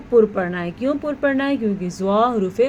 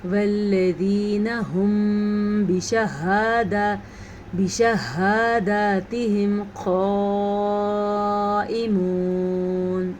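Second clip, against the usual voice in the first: slow chant that runs out of breath; breath breaking mid-verse; much slower than usual. Shown as a demonstration. Teacher showing the mistake of breaking breath. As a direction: let the breath break before بشہاداتہم. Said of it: "میرے سے سانس ٹوٹ گیا تھا".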